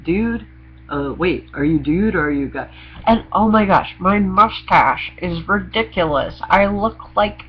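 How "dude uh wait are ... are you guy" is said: confused stranger. Retold or imitated. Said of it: "people to say".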